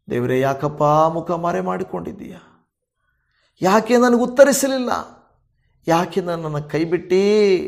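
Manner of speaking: impassioned pastor's prayer, rising in waves of pleading; fervent prayer. Acted. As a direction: pray over the people, pleading with God. Pastor leads closing prayer over music. (ಭಾವಪೂರ್ಣ ಉತ್ಸಾಹಭರಿತ ಪ್ರಾರ್ಥನೆ)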